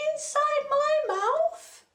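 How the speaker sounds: very high, loud squeaky voice; squeaky request. Acted. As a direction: squeak it out eagerly. Repeating the request to lion.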